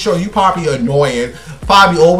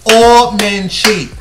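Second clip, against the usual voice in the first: heated rant; 5 semitones higher than usual. Real, not acted. Ranting advice to women.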